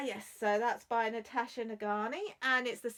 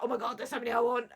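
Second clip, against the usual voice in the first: excited; 5 dB louder, faster than usual. Retold or imitated. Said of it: "I turned around and was like".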